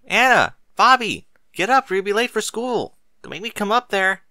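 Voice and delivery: high, loud call up the stairwell; mother yelling up to her kids, very high and loud; shouting up the stairs. Acted. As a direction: holler for the kids to get up. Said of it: "she shouted loudly up them".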